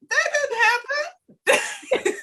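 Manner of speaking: high, slow and laughing through it; drawn-out amused "no way"; laughing disbelief. Retold or imitated. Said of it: "the rest of us are like".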